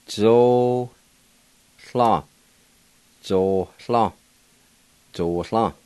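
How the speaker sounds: "Zo. Hla." in two separate beats; Cherokee pronunciation. Shown as a demonstration. Teacher pronouncing cardinal in Cherokee, slow separate syllables. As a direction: pause between "Zo" and "Hla". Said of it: "now I'll go back and pronounce them".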